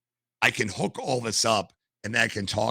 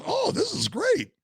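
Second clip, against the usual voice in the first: much higher, slow, gushing imitation; mock enthusiasm; slower than usual. Imitating the ex-FBI flight attendant with mock gushing delight. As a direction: ham up how thrilled the guy was.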